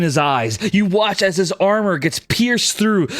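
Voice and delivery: vivid battle scene-setting, driving on; dramatic game master narration. Acted. Game master describing an arrow kill to the archer, dramatic narration.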